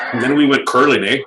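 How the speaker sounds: mock Canadian accent. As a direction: put on a Canadian accent, tagged with an eh. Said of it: "in a Canadian accent".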